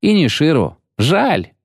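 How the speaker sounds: put-on high-pitched young voice; girlish regret. A narrator's reading. Angouleme lamenting to the witcher, high girlish voice. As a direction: toss it out with light regret.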